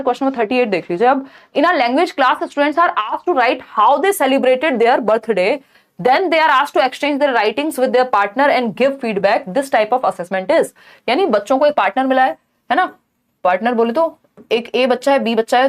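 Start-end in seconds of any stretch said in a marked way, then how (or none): 1.6-10.7 slow, deliberate reading of the question; reading question aloud. Acted. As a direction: read it out slowly for the class. Reads exam question aloud. (प्रश्न को धीरे-धीरे पढ़कर सुनाना)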